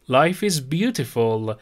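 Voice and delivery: slow, stress on life; slow model phrase. Shown as a demonstration. Teacher models life is beautiful for students, slow. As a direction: say it slowly for learners.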